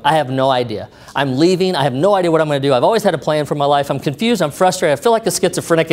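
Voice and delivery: retold outpouring, one confession after another; spewing it out. Flustered man unloads on old friend at party, spewing. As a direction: spill it all out without stopping. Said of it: "I just kinda spewed on him".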